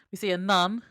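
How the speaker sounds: loud punch on "nun"; mic-blasting emphasis. Real, not acted. Narrating the opening scene, "nun" blasted loudly. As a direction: hit "nun" hard and loud. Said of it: "I blow out the microphone".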